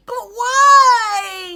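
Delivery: loud high wail of protest; protesting duck. Acted. Duck protests to Ilyas about giving, loud high wail. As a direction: whine it like an outraged duck.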